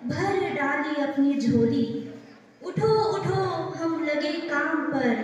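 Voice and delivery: measured verse with pauses between phrases; poem recitation. Acted. Student presenting a poem to the gathering, measured recitation. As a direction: recite each line clearly, lightly lilting.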